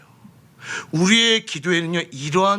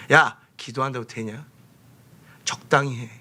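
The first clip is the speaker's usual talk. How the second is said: discouraging voice. Acted. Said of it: "마음을 무너뜨리려고 하는 소리입니다".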